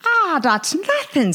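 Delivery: high, slow Irish voice; hammy stage Irishman boasting; Irish accent. Acted. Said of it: "says Paddy Sheehan, the Irishman".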